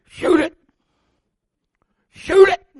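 high, loud and urgent, building; urgent urging. Retold or imitated. Father urging his son to shoot the buck, urgent and high.

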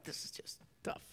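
whispered despair. Retold or imitated. Voicing a discouraged believer.

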